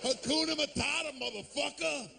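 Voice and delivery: guy on the street. Retold or imitated. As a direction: toss it off like a tough guy quoting Disney.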